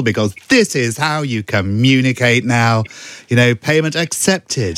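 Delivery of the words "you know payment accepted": Rishi Sunak impression. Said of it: "it's like that tone".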